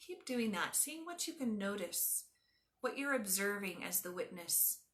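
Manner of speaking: calm, measured yoga nidra voice with long pauses; guided meditation. Acted. Teacher guiding a class through yoga nidra, calm guided meditation. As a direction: ease them into stillness, letting phrase endings soften.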